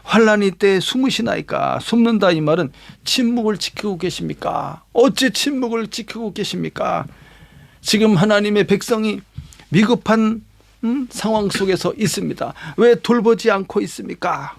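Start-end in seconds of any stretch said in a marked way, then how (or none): 0.0-1.8 mildly pleading question to God; earnest plea. Acted. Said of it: "간절히 간구하는". 3.0-7.1 understated plea building slightly to God; pleading complaint. Acted. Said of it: "하소연하는 거야". 12.8-14.5 mild lament addressed to God; pleading complaint. Acted. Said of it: "하소연하는 거야".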